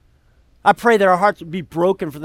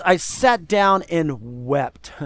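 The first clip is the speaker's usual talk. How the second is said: slow, softer, grieving read; sorrowful, slow reading; 3 semitones lower, 4 dB quieter, much slower than usual. Acted. Pastor reading Nehemiah's lament slowly and sorrowfully. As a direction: let the words sink, heavy with grief. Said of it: "And he says".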